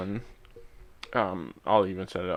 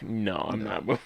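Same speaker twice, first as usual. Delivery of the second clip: quieter deadpan retelling; 2 semitones lower, 6 dB quieter than usual. Retold or imitated. Host re-enacting the refusal to move a seat, deadpan. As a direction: imitate a deadpan refusal, softly. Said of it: "just the deadpan".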